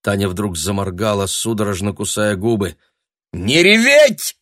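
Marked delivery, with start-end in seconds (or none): 3.3-4.4 high, loud, slow command; sharp shout. A narrator's reading. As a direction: bark the order to stop crying. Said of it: "прикрикнула Людмила". (резкий окрик)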